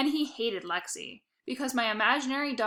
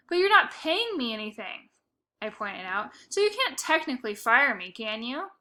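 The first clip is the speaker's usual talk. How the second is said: 1 indignant protest. Acted. Boy protesting being fired.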